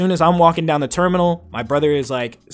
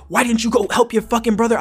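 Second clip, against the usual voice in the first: higher-pitched imitation of an annoyed dad; mock scolding; 7 semitones higher than usual. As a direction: scold him in disbelief. Dad scolding him, retold.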